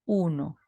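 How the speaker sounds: Uno dicho llano y sostenido; tono uno. Shown as a demonstration. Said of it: "imaginemos que tenemos el tono uno". (primer tono chino llano)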